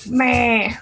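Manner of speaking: drawn-out grumbly "meh" noise; platypus-like meh. Real, not acted. Frustrated by the search, a platypus-like "meh". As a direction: let out a silly animal-like "meh". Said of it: "That sounded like a platypus".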